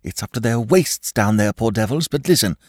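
from fear to frantic pleading; rising panic. A narrator's reading. Shell-shock episode, mounting terror.

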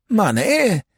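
high-pitched startled echo; vague surprise. Acted. Lord half-listening to a loan request, surprised. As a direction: echo the word, baffled.

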